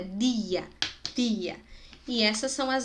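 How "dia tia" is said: "dia, tia" with pure dental consonants; tongue-forward D and T. Shown as a demonstration. Teacher showing tongue position, dental pronunciation. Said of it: "Esse é com a língua pra fora".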